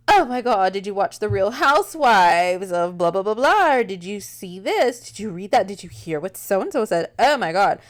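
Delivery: hammed-up gossip, eager questions in a row; lightly voiced scandalized gossiper; gossipy friend. Acting out excited gossipy women.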